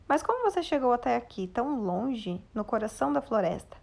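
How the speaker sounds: quick, curious question; lively question. Shown as a demonstration. Teacher reading the dwarfs asking Snow White.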